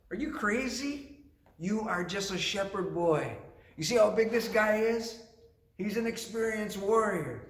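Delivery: high, disbelieving acted retort; mock incredulous. King Saul to young David, incredulous. King doubts the shepherd boy.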